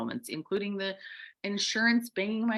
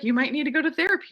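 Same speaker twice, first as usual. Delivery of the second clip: quoted friend; 10 semitones higher, 6 dB louder, much faster than usual. Retold or imitated. Friend's advice retold.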